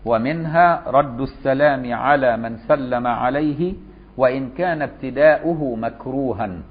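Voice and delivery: slow, deliberate recitation of the text; slow formal reading. Shown as a demonstration. Teacher rereads the legal text to students, slow and formal. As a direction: read slowly, every classical ending sounded. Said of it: "وعشان كده بيقول لك".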